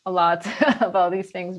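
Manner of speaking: laughing through the words. Real, not acted. Guest promising to talk about mindfulness, chuckling.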